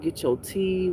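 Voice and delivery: ordinary talk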